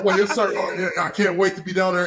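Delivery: high, laughing yes-sir; eager and laughing at once; laughing politeness. Retold or imitated. Player telling the owner he can't wait, laughing. Retelling answer to team owner.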